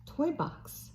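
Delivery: breathy whispered word. Acted. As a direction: whisper it to the baby.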